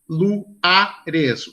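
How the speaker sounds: "luares" split into lu-a-res; vowels separated. Shown as a demonstration. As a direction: keep u and a apart in "luares". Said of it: "duas vogais separadas". ("luares" separando as vogais, lu-a-res)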